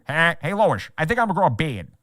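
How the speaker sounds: a lightly put-on cartoon dad voice; goofy sitcom dad bluster, tossed off a second time; Peter Griffin impression. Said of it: "That's a pretty good Peter".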